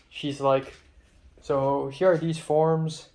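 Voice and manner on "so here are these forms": slow, halting stab at Irish; amateur Irish accent, drawn out; attempted Irish accent. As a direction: imitate an Irish woman giving instructions. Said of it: "trying to do an Irish accent".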